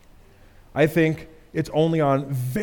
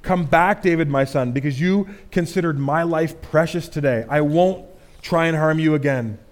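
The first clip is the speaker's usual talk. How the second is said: remorseful plea. Acted. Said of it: "Saul is cut to the heart".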